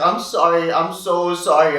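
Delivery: put-on tearful apology; imitated sobbing apology. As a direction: blurt it out like someone in tears, drawn out at the end. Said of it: "she's crying and she's sobbing".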